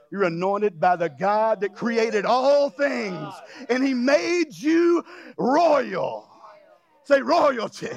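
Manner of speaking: slow, emphatic pulpit declaration; building sermon proclamation; preaching. Real, not acted. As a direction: stretch the key words for the congregation. Preaches at full force.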